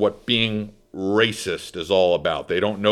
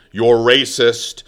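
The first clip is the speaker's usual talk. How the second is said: louder accusation; 6 dB louder, slower than usual. Retold or imitated. Woman doubles down on accusation.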